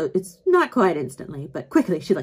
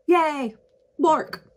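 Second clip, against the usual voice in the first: excited dog; 8 semitones higher than usual. Acted.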